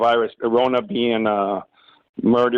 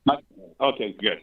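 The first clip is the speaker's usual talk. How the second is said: phone speaker; 5 dB quieter than usual. Real, not acted. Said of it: "Let me put you on speakerphone".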